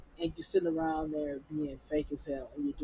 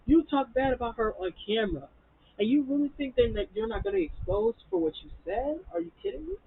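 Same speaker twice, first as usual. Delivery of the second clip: mock outrage; 8 semitones higher than usual. Retelling her own outraged reaction.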